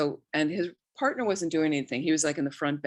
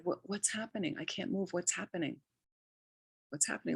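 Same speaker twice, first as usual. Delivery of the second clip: alarmed and confused; 2 semitones higher, 8 dB quieter than usual. Retold or imitated. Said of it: "alarmed and disturbed and trying to get out of bed".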